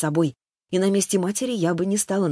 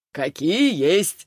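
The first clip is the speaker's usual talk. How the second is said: chuckling; 3 dB louder, much slower than usual. A narrator's reading. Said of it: "хохотнул он".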